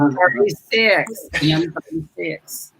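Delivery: slow, drawn-out bingo call. Acted. Bingo host calling M thirty-six slowly. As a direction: drawl the number out. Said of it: "bingo calling".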